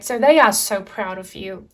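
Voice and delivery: usual speaking voice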